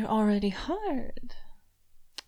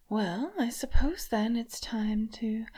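whisper. Acted. Mistress whispering to her toy, teasing. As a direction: breathe it close to the ear.

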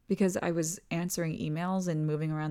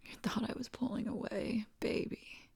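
hushed, much softer; soft whisper; 3 semitones higher, 8 dB quieter than usual. Acted. Partner reassuring a lover who feared rejection, whisper. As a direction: whisper it to calm her fear.

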